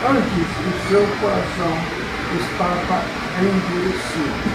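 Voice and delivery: measured, solemn reading aloud; scripture reading. Acted. Pastor reading Mark's Gospel to the congregation, measured scripture reading. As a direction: read out the Gospel passage with deliberate phrasing. Reads the Bible passage aloud.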